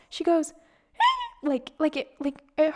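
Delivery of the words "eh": very high little pained squeak; imitated squeak. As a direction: squeak like the jab hurt. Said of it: "she squeaks".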